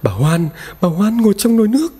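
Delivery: high, frightened telling of what she saw; trembling terror. Acted. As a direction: point and stammer out the horror. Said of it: "Bà run rẩy đưa tay chỉ". (vợ run sợ chỉ vào nồi, giọng cao)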